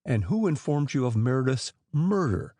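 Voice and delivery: murder pointedly leaned on; stress on murder. A narrator's reading. Inspector insisting on murder, pointed stress. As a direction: hit murder deliberately back at him. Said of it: "Mitchell repeated the word intentionally".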